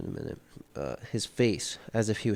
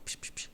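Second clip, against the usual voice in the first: soft hushed echo noises; repeated whispery psh sounds; imitated echo; 13 dB quieter, faster than usual. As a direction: imitate a bathroom echo with quick, quiet pshes. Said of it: "It's all echoey".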